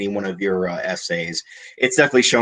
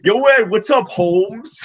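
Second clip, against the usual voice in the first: street talk; 9 semitones higher, slower than usual. Pretend. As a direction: greet him like a street buddy. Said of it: "you talked street with Ed".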